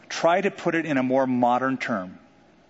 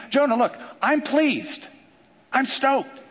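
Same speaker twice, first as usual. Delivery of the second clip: cheerful God; 9 semitones higher than usual. Acted.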